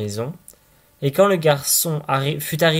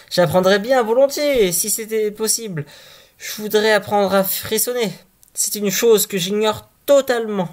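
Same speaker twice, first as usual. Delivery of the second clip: put-on a little higher, keen simpleton boy; eager simple boy; 6 semitones higher than usual. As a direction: answer eagerly, like a naive lad. Boy answers father eagerly.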